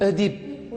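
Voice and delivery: Oedipe beginning with rounded "eu"; accepted pronunciation. Shown as a demonstration. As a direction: say Oedipe as "eu-dipe". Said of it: "on accepte maintenant".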